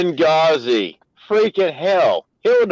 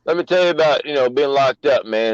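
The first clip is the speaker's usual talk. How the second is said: put-on African American accent; 3 semitones lower than usual. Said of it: "There's this black voice again".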